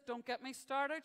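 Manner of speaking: exasperated shop woman. Acted. Shop woman starting a rant to a customer, exasperated. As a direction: drag it out like a fed-up local.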